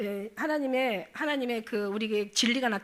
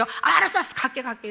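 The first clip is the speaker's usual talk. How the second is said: mock panicked giving-in; 5 dB louder than usual. Preacher voicing spirits fleeing when trampled, mock panic. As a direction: act out a hasty, flustered surrender. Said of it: "이런다니까".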